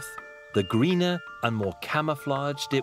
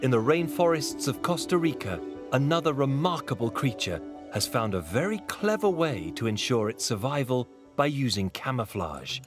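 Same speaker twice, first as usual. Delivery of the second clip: calm documentary narration; nature documentary. A narrator's reading. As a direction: tell it like a wildlife film. Documentary narrator over music.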